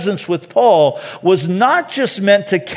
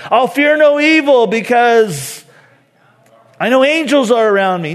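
mock-earnest misquote, a bit faster at the end; deliberate wrong version; 4 semitones higher, 3 dB louder than usual. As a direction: say the wrong line as if sure of it. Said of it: "No, that's not what he says".

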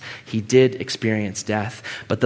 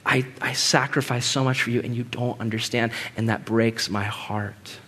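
heartbroken plea; 3 semitones lower, 6 dB quieter than usual. Pretend. Jesus voiced, heartbroken.

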